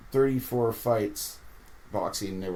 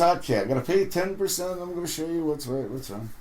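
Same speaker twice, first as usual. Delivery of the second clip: Corey's voice; 7 semitones higher, faster than usual. Retold or imitated. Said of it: "he goes".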